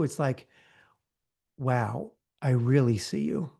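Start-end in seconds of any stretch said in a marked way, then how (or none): 1.6-3.5 really see them, gently; sincere squint. Shown as a demonstration. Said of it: "what does sincere squint look like".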